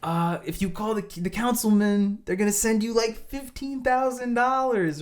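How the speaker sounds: high, slow, sing-song scammer pitch; a teasing scammer imitation; mock scam message. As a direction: read it like a too-good-to-be-true scam offer. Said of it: "one of those messages like".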